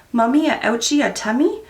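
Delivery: lightly voiced little boy asking about the ouchie; toddler son's voice. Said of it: "He goes".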